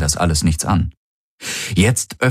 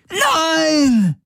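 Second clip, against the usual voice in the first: high crying scream of pain; anguished cry. A narrator's reading. Galen screaming as his mind is seized, crying scream. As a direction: cry out as if tortured.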